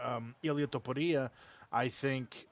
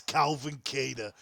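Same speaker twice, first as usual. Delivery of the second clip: put-on Boston accent; 3 dB louder, slower than usual. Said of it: "in the Boston accent".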